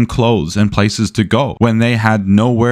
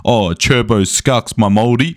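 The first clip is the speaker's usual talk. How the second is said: slow mock New Zealand slang; hard-to-follow New Zealand accent; slower than usual. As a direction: imitate a Kiwi local, drawn out. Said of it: "went to New Zealand and then someone was like".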